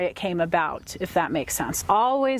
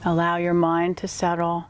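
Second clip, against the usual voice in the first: guided meditation. Acted. Guide leading a client on an inward animal totem journey, guided meditation. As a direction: ease the listener inward, phrase by phrase.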